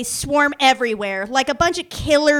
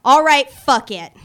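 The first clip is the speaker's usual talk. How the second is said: louder, giving up with a grunt; exasperated; 7 dB louder than usual. Retold or imitated. Drunk woman to the cop, fed up and louder. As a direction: throw it out, fed up and loud.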